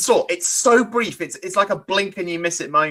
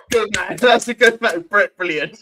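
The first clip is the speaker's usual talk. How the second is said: mock approving official; 3 semitones higher than usual. Embassy staff letting the nervous visitor in, mock approving chuckle. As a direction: play an impressed official through a laugh.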